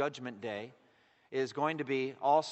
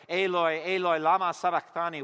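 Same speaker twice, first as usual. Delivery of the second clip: raised-voice imitation of Jesus crying out; loud cry; 6 dB louder than usual. Preacher quoting Jesus on the cross, loud cry. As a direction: cry it out firmly, short of a scream. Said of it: "cried out in a loud voice".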